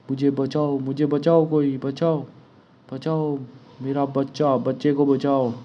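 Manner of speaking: understated panic, not shouted; mild cry for help. Acted. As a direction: read a villager's plea with a touch of alarm. Villager pleading for rescue in comic.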